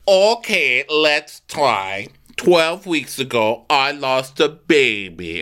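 lightly put-on, drawn-out voice; measured mock-patient imitation, stretching the last words; Diana. Host voicing Diana revealing a loss to Sutton, lightly imitated. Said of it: "And so Diana's like".

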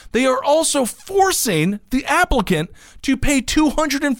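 emphatic article read. Real, not acted. Host reading a disturbing bill to listeners, emphatic read. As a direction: build emphasis through the report.

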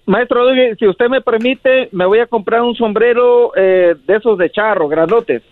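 lightly voiced gushing fan; high gushing fan. Caller gushes to host.

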